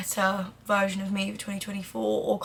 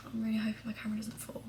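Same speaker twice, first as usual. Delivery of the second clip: quick, whispery aside; muttered aside; 13 dB quieter, much faster than usual. Real, not acted. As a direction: slip it in hurriedly under your breath. Worried aside about camera mid-sentence.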